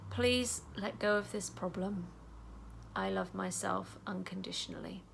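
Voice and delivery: calm self-talk while tapping; gentle affirmation. Shown as a demonstration. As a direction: say it tenderly to yourself. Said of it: "you're gonna say".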